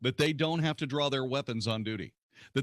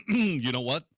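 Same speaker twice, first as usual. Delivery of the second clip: high, hammed-up wail of alarm; mock media outrage; 5 semitones higher than usual. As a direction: climb into exaggerated horror, mocking the media. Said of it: "mainstream moronic media will say".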